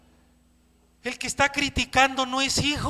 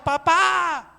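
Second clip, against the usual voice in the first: put-on child's joyful shout; 7 semitones higher, 5 dB louder than usual.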